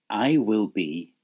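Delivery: "I" stretched and leaned on; slow emphasis on "I"; stress on I. Shown as a demonstration. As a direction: lean into "I", drawing it out. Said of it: "Did you hear the emphasis on the I?".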